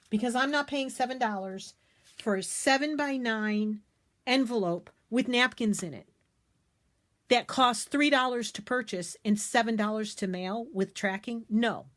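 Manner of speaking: real rising indignation, emphatic; upset, starting to yell. Real, not acted. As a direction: get worked up over the price. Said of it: "can you tell how upset I'm getting? I'm starting to yell at you".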